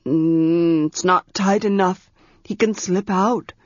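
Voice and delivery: grumbling. Acted. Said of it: "he grumbled".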